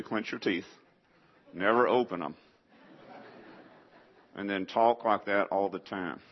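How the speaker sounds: Southeast Texas talk through clenched teeth; Southeast Texas accent. Shown as a demonstration. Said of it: "if you want to talk like a person from Southeast Texas".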